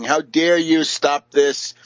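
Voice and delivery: slow, lightly whiny complaint; mock whining. Speaker mocking Gabriel's whining, a light mock whine. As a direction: drag it out like a petulant whine. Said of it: "he started whining".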